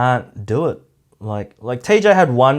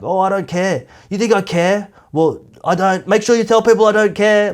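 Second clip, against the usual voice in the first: mock insecure protest; 8 semitones higher, 3 dB louder than usual. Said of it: "has to say".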